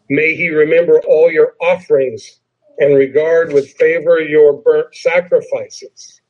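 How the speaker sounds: emphasized "your" in scripture reading; stress on YOUR. Shown as a demonstration. Pastor misreading the psalm on purpose, stress on "your". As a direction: lean on "your" each time. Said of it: "I'm gonna put some emphasis on some words".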